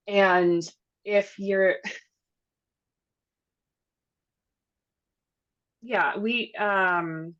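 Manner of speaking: jet lagged, losing the thread; tired jet lagged halting speech. Real, not acted. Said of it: "sorry, I'm very jet lagged right now".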